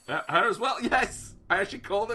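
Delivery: loud, high gleeful shout; excited. Real, not acted. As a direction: yell it in triumph. Voorspelling komt weer uit.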